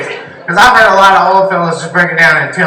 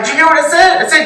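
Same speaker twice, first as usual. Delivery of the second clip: excited ghost hunter; 8 semitones higher, faster than usual. Retold or imitated. Ghost hunter hearing a recording, high awed mock voice. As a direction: gasp like a spooked TV ghost hunter. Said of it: "It's like".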